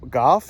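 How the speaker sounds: "Golf" said like "goff"; golf without L. Retold or imitated. Telling his dinner date "Golf", pronounced "goff". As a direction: say "Golf" with no L, as a question. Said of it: "Why do you say it that way?".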